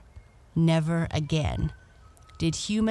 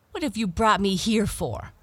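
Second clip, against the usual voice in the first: higher, sharp demand; mildly angry princess; angry cry; 4 semitones higher than usual. Acted. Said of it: "cried the proud princess angrily".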